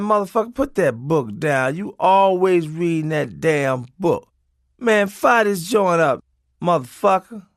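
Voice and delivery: hammed-up irritated stoner jeering; mock angry yell. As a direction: act out the guy barking at you to drop the book. Stoner hassling reader at playground.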